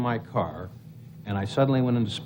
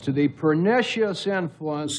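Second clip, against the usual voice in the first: Spiro Agnew monotone. Acted. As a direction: drone it out like Agnew. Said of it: "Spiro Agnew had kind of a monotone voice".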